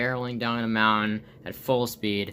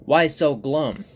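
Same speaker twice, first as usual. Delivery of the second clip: louder, perky cartoon stick figure; Stickmon voice; 3 semitones higher, 5 dB louder, slower than usual. Stickmon asks his gloomy flower friend, upbeat cartoon voice. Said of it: "And Stick goes".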